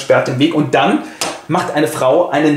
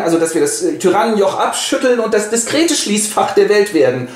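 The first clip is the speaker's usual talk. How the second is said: put-on old dying man; 9 semitones higher than usual.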